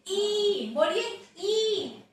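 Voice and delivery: ई held long with lips spread; wide-lipped ई. Shown as a demonstration. Teacher asking pupils to repeat, wide-lipped ई. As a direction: stretch each ई with wide lips. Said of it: "होंठ चौड़े खुल जाएंगे".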